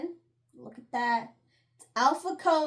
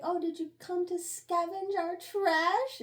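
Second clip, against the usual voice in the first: sneering bully; 6 semitones higher than usual. Retold or imitated. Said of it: "keeps calling her a stray".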